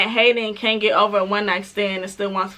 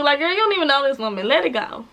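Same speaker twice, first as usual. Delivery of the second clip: exasperated; 2 semitones higher, faster than usual. Real, not acted. Talking back to the cop.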